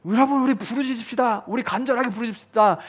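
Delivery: high, loud rallying call; a worship leader urging the crowd; mock worship leader. (사회자 흉내)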